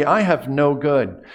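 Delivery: I leads, the emphasis on the subject; stress on I. Shown as a demonstration. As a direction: put the weight on "I", as in "it's me". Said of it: "The emphasis can be on the subject".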